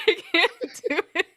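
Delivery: normal talking voice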